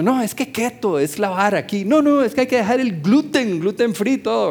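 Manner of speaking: lightly voiced know-it-all health convert; preacher lightly mimicking a diet zealot to his congregation; mock diet zealot. Mocking diet zealots preaching their diet.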